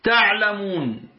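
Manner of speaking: تعلمون slow with the final nun silenced; تعلمون stretched on the waw, stopping on a still nun; تعلمون said slowly with the long waw held and the final nun without its vowel; pausal form. Shown as a demonstration. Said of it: "فنقول ماذا".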